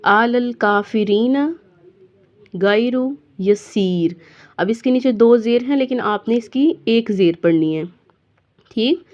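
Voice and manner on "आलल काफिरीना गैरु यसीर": recitation. Shown as a demonstration. Teacher recites verse.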